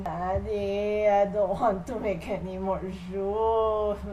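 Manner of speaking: slow, drawn-out mock whine; whiny pleading child. Son begs his father over factory work, mock whining. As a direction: drag out a put-on plea to Daddy.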